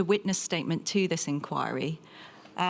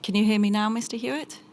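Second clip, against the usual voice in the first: louder, higher call down the link; raised voice; 3 semitones higher, 5 dB louder than usual. Real, not acted. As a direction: project to be heard remotely. Calling over failing video link.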